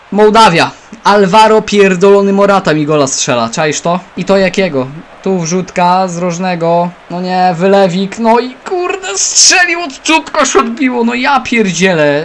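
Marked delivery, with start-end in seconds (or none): 8.1-12.2 irritated, annoyed outburst, pitched up. Streaming a football game right after Morata scores against him: annoyed, swearing. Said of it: "ale jestem wkurzony".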